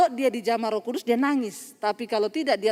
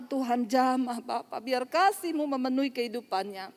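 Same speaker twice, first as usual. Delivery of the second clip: soft, unhurried retold prayer; 4 dB quieter than usual. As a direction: pray gently over someone. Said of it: "Saya berdoa".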